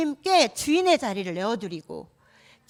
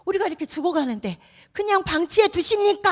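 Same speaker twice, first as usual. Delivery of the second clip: complaining; 8 semitones higher, 4 dB louder than usual. Pretend. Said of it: "막 원망했어요".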